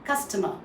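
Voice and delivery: customer with no R at the end; UK pronunciation. Shown as a demonstration. Teacher repeats after the dictionary, UK pronunciation. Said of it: "And U K?".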